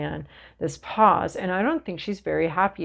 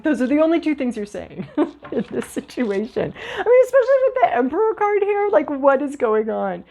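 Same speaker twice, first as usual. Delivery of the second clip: talking through real laughter; giggling while giving the advice; laughing; 6 semitones higher than usual. Real, not acted. Laughing at her own advice.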